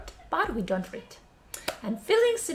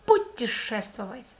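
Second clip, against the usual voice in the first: sped up. Shown as a demonstration. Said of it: "let's speed this word up".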